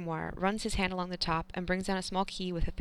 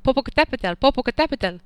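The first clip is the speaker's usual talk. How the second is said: loud, higher call of a long name; mother shouting; 6 semitones higher, 12 dB louder than usual. A narrator's reading. Mother calling her son home, loud shout. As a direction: shout the name across the yard. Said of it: "for his mother to shout".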